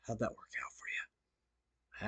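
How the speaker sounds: breathy taunting whisper, slow; mocking whisper. Streamer taunts a rival in a slow mocking whisper. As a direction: hiss the gloat slowly, almost no voice.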